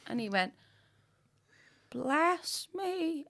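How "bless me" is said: higher, louder repeated "Bless me" with falling tune; impatient priest. Retold or imitated. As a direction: insist "Bless me" again, slower and firmer.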